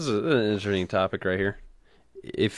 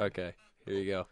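whispering; 8 dB quieter than usual. Real, not acted. Quiet aside on air.

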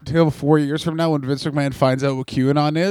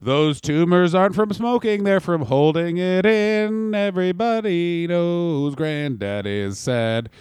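drawn-out mock lament; slower than usual. Mock sad grandad aphorism, drawn out.

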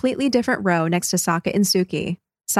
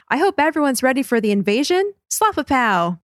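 higher, lightly staged joke delivery; actor playing Sokka; 5 semitones higher than usual. Actor Sokka joking to the audience, lightly hammed. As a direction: lightly play a stage comic's line. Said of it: "Actor Sokka continues, saying".

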